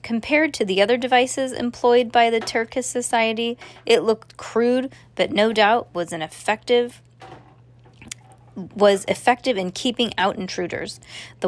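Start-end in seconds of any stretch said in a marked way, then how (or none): none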